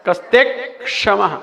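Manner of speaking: कस्ते with a half क joined to त, then क्षमः; half ka after ta. Shown as a demonstration. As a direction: split it as कस्ते, pause, क्षमः. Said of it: "ता के बाद आधा का बोलना है". (कस्ते में आधा क बोलें)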